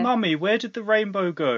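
hint of a tearful youngster asking mummy; crying little kid. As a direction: wail lightly like an upset child. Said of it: "And the little kid cries".

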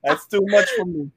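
high, mock-defeated demon; lightly voiced fleeing demon. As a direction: give up like a beaten demon.

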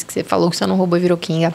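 fala rápido, rindo; rindo enquanto fala. Real, not acted. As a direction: segura o riso e termina a frase. Ri da resposta dela. (rindo e falando depressa)

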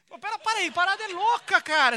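the preacher marvels at Jesus' answer, excited and loud; excited outburst. Real, not acted. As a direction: burst out in amazement. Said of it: "excited outburst".

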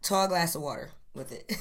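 talking between sips of whiskey; sip, then speak softly into the mic; while sipping a drink. Real, not acted. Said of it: "if you hear me sipping".

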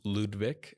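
"Ludwig" said slowly as LOOD-vik; "Ludwig" with v for w and a final k; German-style name pronunciation. Shown as a demonstration. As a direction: say "Ludwig" like Beethoven's first name, with a v sound. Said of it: "similar to Ludwig van Beethoven".

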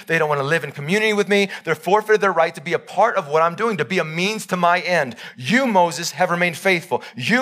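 God rallying Moses, building in force; voicing God. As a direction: swell from steady verdict to urgent promise. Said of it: "He's looking at Moses and saying".

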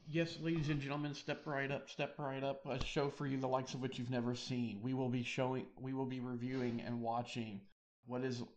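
booming carnival barker pitch; snake oil seller. Pretend. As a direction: hawk it like a circus showman. Circus barker announcing next show.

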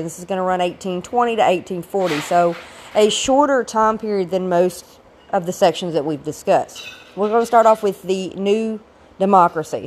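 rough, hoarse voice from a cold; raspy after being sick; gravelly voice. Real, not acted. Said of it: "please excuse the gravelly voice".

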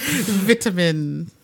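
slow "Vitamin" with short first i, as in "bit"; British vitamin. Shown as a demonstration. Co-host echoing the British word, drawn-out "Vitamin". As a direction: draw out "Vitamin" as "VIT-amin", amused. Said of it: "don't pronounce it differently unless it's vitamins".

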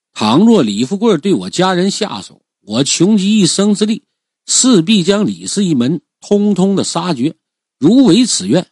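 solemn oath. Acted. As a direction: swear it to heaven with full resolve. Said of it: "立誓说道". (对天立下毒誓，高声郑重)

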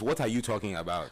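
corrective African accent; African accent demo. Shown as a demonstration. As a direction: show how the African accent should go. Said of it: "It's this".

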